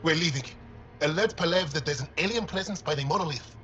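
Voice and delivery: urgent orders. Acted. Researcher ordering the team away from an alien, alarmed.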